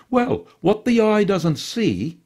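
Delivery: high, slow knowing fop voice; a sly aside to the little dog; Pretty John remarking. A narrator's reading. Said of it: "he remarked to Mimi".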